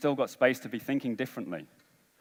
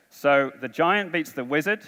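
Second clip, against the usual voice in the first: slow recap; slower than usual. Shown as a demonstration. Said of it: "This is the order how it goes".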